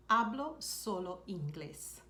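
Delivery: "Hablo solo inglés" said slowly and evenly for learners; slow down and give each word of "Hablo solo inglés"; slow repeat. Shown as a demonstration. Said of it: "Another thing you could say is".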